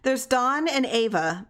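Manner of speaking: high, loud, slow yell. A narrator's reading. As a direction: call it out in desperation. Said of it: "Missus Hutchinson yelled".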